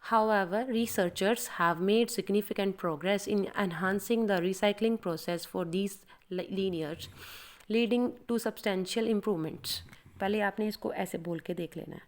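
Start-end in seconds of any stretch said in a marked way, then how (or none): 0.0-9.7 prepare the line by reading it slowly; slow practice read. Shown as a demonstration. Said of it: "Let's start". (धीमी अभ्यास वाली पढ़ाई)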